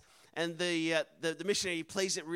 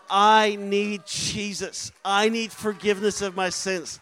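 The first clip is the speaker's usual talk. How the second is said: fervent cry; 6 dB louder, slower than usual. Retold or imitated. Man falls weeping to knees.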